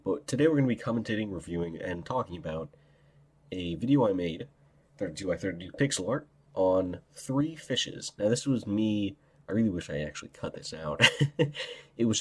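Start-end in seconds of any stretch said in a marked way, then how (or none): 0.0-8.1 numb mouth from ice. Real, not acted. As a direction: talk through a numb mouth. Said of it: "so my mouth is really numb".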